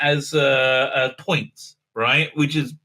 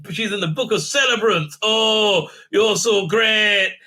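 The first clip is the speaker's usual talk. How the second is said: mock fawning. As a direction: lay the flattery on thick in mockery. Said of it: "and she said".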